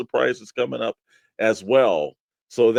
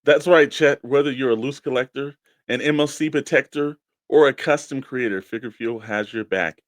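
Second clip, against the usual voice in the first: ad read. Acted. Co-host joins the sponsor spot, bright announcer read. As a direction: hype the product to listeners.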